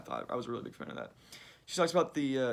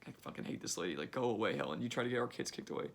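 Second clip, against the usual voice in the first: inner contempt; 2 semitones lower, 3 dB quieter than usual. Retold or imitated. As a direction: grumble the real thoughts under your breath. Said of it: "in their mind".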